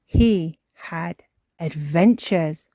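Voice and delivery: slow, loud dramatic reveal; Mummy Pig. Acted. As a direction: space out each word to build intrigue. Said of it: "says Mummy Pig".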